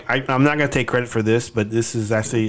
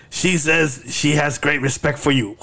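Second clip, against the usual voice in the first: slow, higher-pitched mock interpreter; imagined translator; 4 semitones higher, slower than usual. Mouthpiece translating jabbering to Charlotte, mock interpreter. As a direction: translate slowly and solemnly for comic effect. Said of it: "and then he'll say".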